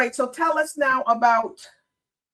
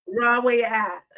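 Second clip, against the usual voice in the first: imitated Jamaican accent. Shown as a demonstration. Host practising the catchphrase for the guest, imitated Jamaican accent. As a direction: have a go at Jamaican patois. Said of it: "that's a good accent for it too".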